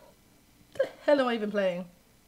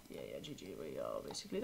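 much lower, resigned mumble; deflated groan; 16 dB quieter, much faster than usual. Real, not acted. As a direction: concede gloomily. Conceding the game.

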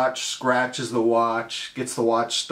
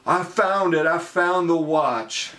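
triumphant fanboy; 4 semitones higher than usual. Retold or imitated. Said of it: "banging your pecs like a silverback".

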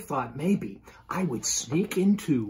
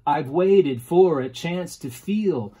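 poem recital; 4 dB louder than usual. Shown as a demonstration. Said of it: "we call that iambic tetrameter".

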